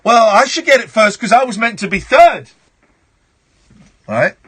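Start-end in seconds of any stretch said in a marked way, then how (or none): 0.0-2.5 mock complaint in a higher voice; lightly hammed-up protest; complaining listeners. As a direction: imitate an indignant listener. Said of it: "people are going".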